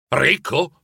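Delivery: a first, level "Ricco?" in disbelief; scandalized. Acted. Scrooge outraged at being called rich, scandalized. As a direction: repeat it as if shocked. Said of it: "ribatté Scrooge scandalizzato".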